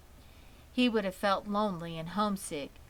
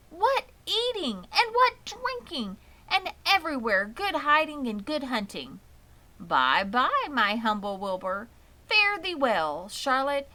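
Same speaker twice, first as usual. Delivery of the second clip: higher, louder gloating rat voice; 6 semitones higher, 5 dB louder than usual. A narrator's reading. Rat bidding Wilbur and Charlotte farewell, gloating and high. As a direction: crow about the feast like a greedy rat.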